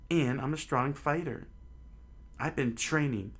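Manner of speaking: put-on high, fast boyish boasting; eager kid. Luffy argues with Shanks, high fast boyish boast. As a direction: show off like a proud kid.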